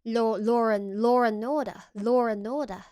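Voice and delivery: law and order with an R linking law to and; intrusive R. Shown as a demonstration. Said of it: "you get phenomena such as law and order".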